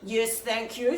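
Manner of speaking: a hint of a low, stern old woman; deep foreboding voice. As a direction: answer coldly like a grim stranger. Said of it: "said this deep, foreboding voice".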